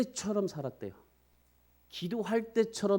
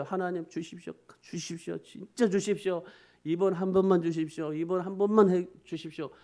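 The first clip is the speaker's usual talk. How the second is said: begging "주십시오" over and over, swelling louder toward "이번 한 번만"; fervent imploring prayer, louder with each "주십시오"; earnest pleading; 3 dB louder than usual. Shown as a demonstration. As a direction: plead like your life depends on it, growing louder. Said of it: "얼마나 간절하겠어요".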